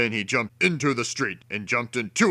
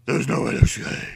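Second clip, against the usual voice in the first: hushed thought; 3 semitones higher, faster than usual. A narrator's reading. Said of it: "he thought".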